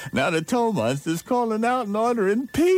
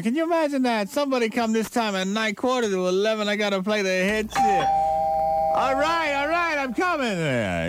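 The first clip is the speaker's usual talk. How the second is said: annoyed yell to an unseen visitor; calling out annoyed; 3 semitones higher than usual. Retold or imitated. Calling out to the door.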